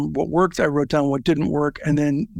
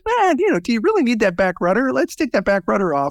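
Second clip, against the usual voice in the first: a mildly raised, doubting meddler's voice; mock skeptic; 5 semitones higher than usual. Founder mimics a meddler asking about the plane's back rudder, lightly mocking. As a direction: question it like a know-it-all tinkerer.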